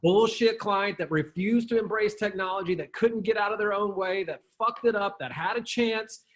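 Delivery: hammed-up ridicule of a failed corporation; mock scornful gossip. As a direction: sneer at the dinosaur company that blew it. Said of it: "they talk about".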